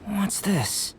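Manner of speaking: hushed curious whisper. Acted. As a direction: breathe it as you spot something odd. Curious find in the water.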